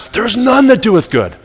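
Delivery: lifted, slow declaration of scripture; voicing God's word. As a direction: proclaim it as scripture from God. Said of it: "God says".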